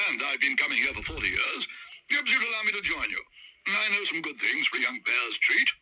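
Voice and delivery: put-on loud, hearty old gentleman; Sir Huntley. Sir Huntley introduces himself to the Browns. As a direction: introduce yourself grandly.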